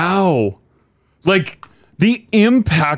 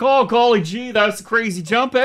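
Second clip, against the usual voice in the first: high, gee-whiz voice; wholesome 1950s kid; 9 semitones higher than usual. Retold or imitated. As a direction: play it like an innocent fifties kid. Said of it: "He's like".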